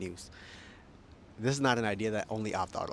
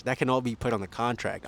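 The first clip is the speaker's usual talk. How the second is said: shaky recording. Real, not acted. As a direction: voice jolted by bumps. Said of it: "I'm sorry for the shaking".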